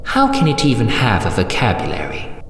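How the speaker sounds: fast, astonished matron; baffled, starting high and tumbling down; incredulous surprise. Acted. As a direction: fire off the question in disbelief. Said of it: "exclaims the matron in surprise".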